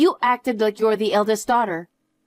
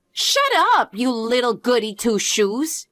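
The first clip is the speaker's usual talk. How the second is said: angry snap. Acted. Sisters quarrel over inheritance.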